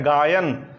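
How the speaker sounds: गायन said with a clear "aay" in the middle, falling; pronunciation demo. Shown as a demonstration. Teacher has students repeat it, pronunciation demo. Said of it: "आप करके देखिए उच्चारण".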